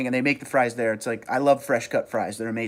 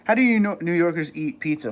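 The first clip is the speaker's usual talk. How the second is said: ordinary talk, nothing marked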